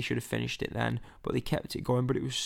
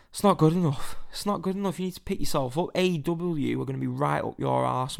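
higher-pitched, exasperated rant; indignant telling-off; 3 semitones higher, 4 dB louder than usual. Pretend. Fan telling Vince to sort out Raw, exasperated rant. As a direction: lay into the boss, starting loud and high.

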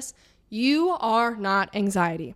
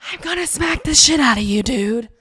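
mock threat; 3 semitones higher, 6 dB louder than usual. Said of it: "It's like".

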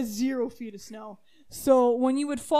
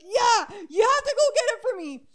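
loud, higher, quick laughing order; laughing insistence; 9 semitones higher, 6 dB louder than usual. Retold or imitated. Insisting to dad.

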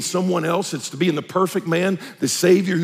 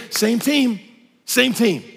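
gently; 5 semitones higher than usual. Shown as a demonstration. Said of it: "very gently say".

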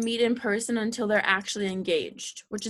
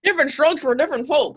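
put-on old person voice; 3 semitones higher, 4 dB louder than usual. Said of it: "You sound like you're eighty-five".

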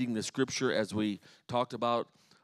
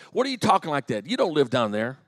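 scolding; 2 semitones higher, 5 dB louder, faster than usual. Retold or imitated. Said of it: "I'd kinda scold her".

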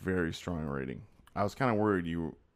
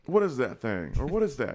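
high, loud excited character voice; movie line impression; 6 semitones higher, 6 dB louder than usual. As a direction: belt it out like the film character. Quoting a movie clip.

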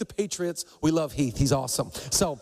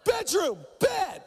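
much higher, squeaked-out answer; nervous blurt; 12 semitones higher, slower than usual. Retold or imitated. Pastor intimidated by Heath, squeaking out an order. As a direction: blurt it out, scared of the big guy.

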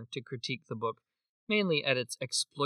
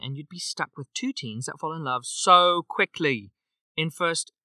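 put-on a light, half-hearted British accent for the review; fun British accent; 2 semitones higher than usual. Reading a long review to her cohost in a light British accent. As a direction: read it like a fun Brit, barely committed. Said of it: "so I'll do a fun British accent".

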